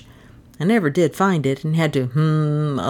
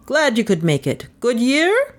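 hearty vicar; 8 semitones higher than usual. A narrator's reading. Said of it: "he boomed".

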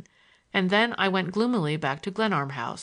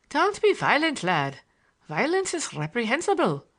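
higher-pitched, sugary mock patience; maddeningly sweet admonishment; 5 semitones higher than usual. A narrator's reading. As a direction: admonish him with infuriating sweetness. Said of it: "he admonished with maddening sweetness and patience".

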